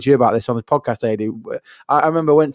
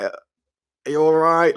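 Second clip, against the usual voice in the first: blunt question; 4 dB quieter, much slower than usual. Retold or imitated. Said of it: "I'm like".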